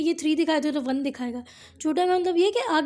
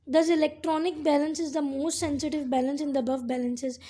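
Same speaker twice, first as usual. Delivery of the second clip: slow dictation; much slower than usual. Shown as a demonstration. Teacher dictating the final conclusion to students, slow. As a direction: read the conclusion out slowly, word by word. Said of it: "dictating conclusion slowly".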